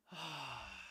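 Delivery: long, soft falling sigh; exasperated sigh. Real, not acted. Streamer stuck on broken donation alerts, exasperated sigh. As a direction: sigh out your frustration.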